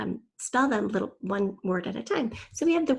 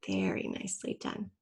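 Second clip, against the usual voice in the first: quiet praise; 8 dB quieter than usual. Real, not acted. Teacher praising a student's spelling.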